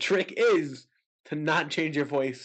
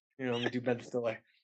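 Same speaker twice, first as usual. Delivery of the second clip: plain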